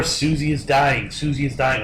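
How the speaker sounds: understated imitation of a bored voice. Storyteller imitating the voice on the phone line, mildly bored. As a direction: recite it with mild boredom, unhurried. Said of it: "like, bored".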